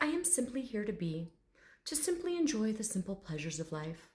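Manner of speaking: soft, unhurried dignity, lightly voiced; proper gentleman. Dragon telling psychic his purpose, gently proper. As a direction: lightly play a serene refined dragon. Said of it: "this very proper gentleman".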